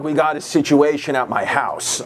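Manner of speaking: lightly voiced low-pitched greaseball boss; a hint of a shady boss, kept low.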